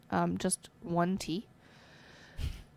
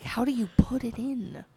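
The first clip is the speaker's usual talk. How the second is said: whispering; 5 semitones higher than usual. Retold or imitated. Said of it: "I'm just like".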